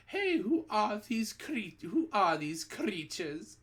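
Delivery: high alarmed yell; teachers yelling. A narrator's reading. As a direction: yell at the strange creatures. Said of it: "teachers is yelling".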